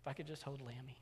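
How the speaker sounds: put-on very soft, trembling little girl; a teary child pleading softly; small tearful voice. Little girl answering her father through tears, very soft. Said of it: "her lip was quivering".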